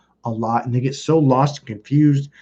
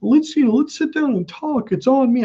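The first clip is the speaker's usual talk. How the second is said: high-pitched coaxing imitation; lightly mock a drunk brother's wheedling; 12 semitones higher than usual. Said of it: "my brother was drunk".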